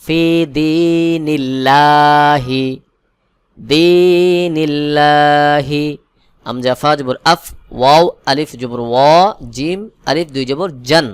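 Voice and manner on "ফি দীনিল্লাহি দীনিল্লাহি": slow chant, light "laa" held long in "দীনিল্লাহি"; thin Allah sound. Shown as a demonstration. Teacher shows the rule, thin long "দীনিল্লাহি". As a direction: keep the L of "দীনিল্লাহি" thin, unrounded and drawn out. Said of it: "এখানে পাতলা বা বারিক করে পড়তে হবে".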